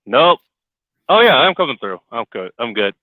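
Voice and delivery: tinny crackly radio-like sound; over cb radio. Real, not acted. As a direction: talk through a cheap CB radio. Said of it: "now you sound like a fucking C B radio again".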